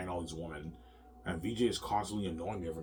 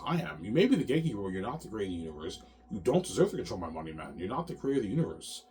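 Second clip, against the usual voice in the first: indignant rant; 2 semitones higher, 4 dB louder than usual. Retold or imitated. Defiant rant at the gatekeeper.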